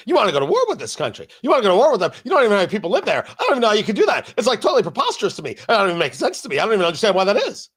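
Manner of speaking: lightly voiced Tucker Carlson, fast and incredulous; a hint of Tucker, rattling off disbelief quickly; Tucker impression. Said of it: "That is my Tucker impression".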